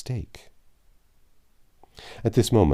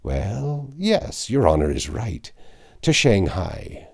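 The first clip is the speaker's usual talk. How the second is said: cried out; 4 semitones higher, 3 dB louder, slower than usual. A narrator's reading. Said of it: "Then he cried".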